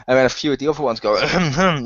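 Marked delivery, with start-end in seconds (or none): 1.1-1.8 repeated attention-seeking ahems; throat-clearing that begs to be chosen; pick-me throat-clearing. Retold or imitated. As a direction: clear your throat twice as a hint. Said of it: "like, "Take me".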